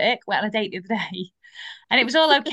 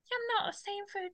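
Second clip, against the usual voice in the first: muted retold refusal; 10 semitones higher, 10 dB quieter than usual. Retelling a friend refusing.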